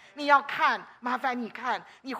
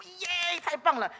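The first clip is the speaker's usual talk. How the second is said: demo cheer; 5 semitones higher, slower than usual. Shown as a demonstration. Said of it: "对自己说".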